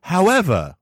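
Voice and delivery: hammed-up olde English proclamation; mock Shakespearean. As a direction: play a pompous Elizabethan herald. Fake old English speech.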